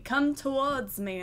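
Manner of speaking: slow, drawn-out beckoning call; beckoning object. Pretend. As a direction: lightly voice an alluring thing. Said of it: "like it's telling me".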